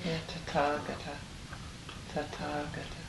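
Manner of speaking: tathagata with the A long and stressed. Shown as a demonstration. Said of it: "That's the stress, and it's a longer A".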